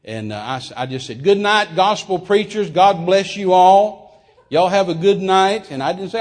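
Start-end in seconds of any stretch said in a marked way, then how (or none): 1.2-5.7 retold farewell. Retold cheery farewell to preachers.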